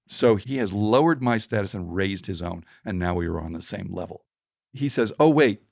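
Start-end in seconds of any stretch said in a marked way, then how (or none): 5.2-5.6 mock sudden realization. Panhandler quoted again.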